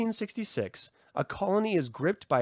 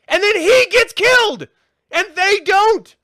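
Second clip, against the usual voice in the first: much higher and much louder disbelieving yell; outraged shout; 14 semitones higher, 12 dB louder, slower than usual. Real, not acted. Telling viewers the nice kid got killed, outraged shout. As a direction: yell it like you can't believe they killed him.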